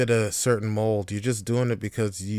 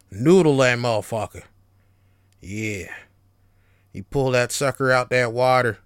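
put-on Southern accent; 6 dB louder than usual. Vlogger hamming up a fishing pep talk, loud Southern accent. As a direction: bellow it like a country angler. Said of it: "I don't know where I'm getting this accent from".

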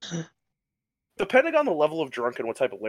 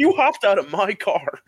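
louder and higher, laughing while quoting his friend; laughing retort; 6 semitones higher, 5 dB louder than usual. Retold or imitated. Drunk friend on the phone, laughing disbelief. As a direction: laugh through the friend's complaint. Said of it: "He's like".

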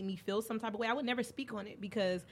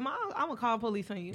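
fast playful threat through a laugh; 3 semitones higher, faster than usual. Retold or imitated. Daughter teasing her mom about calling police, laughing. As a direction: tease her with a grin in the voice. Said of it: "I was smiling".

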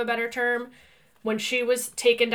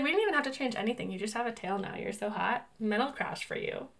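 quick soft sirens; 7 dB quieter than usual. Retold or imitated.

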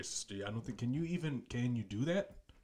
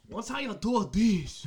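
caricatured Asian accent, higher and slow; louder, drawn-out mock Asian accent; 7 semitones higher, 5 dB louder, much slower than usual. Shown as a demonstration. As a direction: put on an exaggerated Asian accent. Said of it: "Doesn't that sound racist at that point?".

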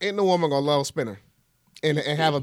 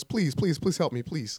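lightly put-on pleading phone voice; a mock plea for help in a mild white-guy voice; 7 dB quieter, slower than usual. Joking caller begging for rescue on the phone, put-on white voice. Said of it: "Put on my best white voice".

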